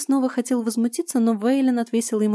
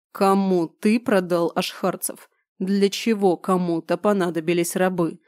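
calm voice. Acted. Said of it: "спокойным голосом спросил Вайлен".

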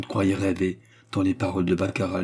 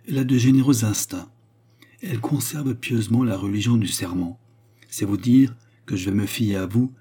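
lightly voiced woman, raised and emphatic; earnest Baccarat; 3 semitones higher, 4 dB louder than usual. Baccarat entrusts herself to the young count, earnest. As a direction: confide with measured conviction.

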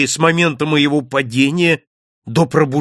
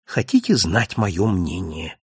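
slow, lower, weighty question; sagely; 6 semitones lower than usual. A narrator's reading. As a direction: lean in like a know-all with a secret. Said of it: "глубокомысленно произнёс хозяин". (глубокомысленно, медленно и ниже)

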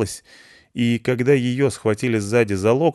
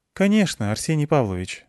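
put-on young woman voice; 6 semitones higher than usual. Olga answering the director.

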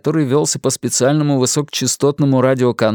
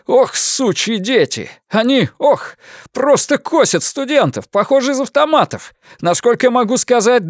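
horrified; 7 semitones higher than usual. Acted. Witness describing massacre on radio.

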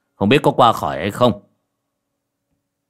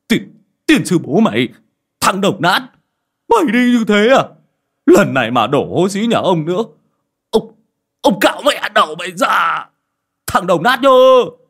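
high, loud angry shouting; scolding curses; 9 semitones higher, 6 dB louder than usual. A narrator's reading. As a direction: curse him out as he rides away. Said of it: "mà mắng mà chửi".

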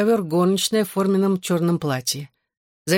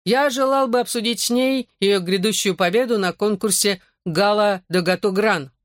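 put-on French accent; 3 semitones higher than usual. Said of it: "голосом Жан-Пьера".

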